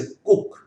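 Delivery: कुक with a short u; short-vowel example word; short u demo. Shown as a demonstration. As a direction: keep the vowel of कुक brief. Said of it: "इस कुक में ये short sound है".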